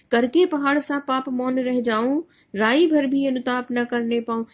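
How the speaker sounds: measured verse, rising and falling; a teacher's lilting verse reading; poem recitation. Acted. Recites final couplet.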